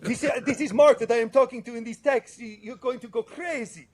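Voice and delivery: high, excited buddy voice bursting with news; Rudy voice. Retold or imitated. Friend on the phone telling Butch about a famous buyer, high excited voice. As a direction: pitch way up like a thrilled friend spilling a secret. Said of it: "I have to do the Rudy voice".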